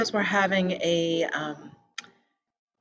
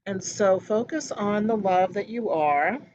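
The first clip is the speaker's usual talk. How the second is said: measured meditation-guide voice with pauses between phrases; calm, evenly paced meditation leading; guided meditation. Real, not acted. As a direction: guide listeners gently, phrase by phrase. Leads a meditation.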